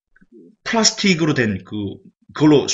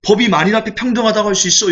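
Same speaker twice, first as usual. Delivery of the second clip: higher, pointed scolding at the judge; cursing at the judge; 6 semitones higher than usual. Retold or imitated. Father in the film rails at the judge, angry and high. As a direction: jab a finger and rail at the unfair judge. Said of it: "욕을 하면서".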